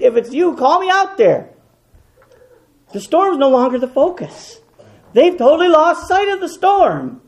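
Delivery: high, loud, fervent preacher's cry; full-force preaching. Acted. Preacher to his congregation about Jesus, loud fervent preaching. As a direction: lift the congregation with rising fervor.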